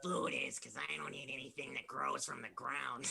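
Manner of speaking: slow, put-on goblin voice; slow goblin drawl. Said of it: "It's time for your goblin voice".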